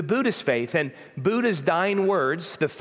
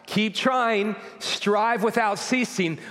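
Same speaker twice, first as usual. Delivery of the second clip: higher, raised cry; mock yell; 6 semitones higher, slower than usual. Preacher voicing the words Jesus did not cry, raised and high. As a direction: call it out high as a cry from the cross. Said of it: "he doesn't yell out".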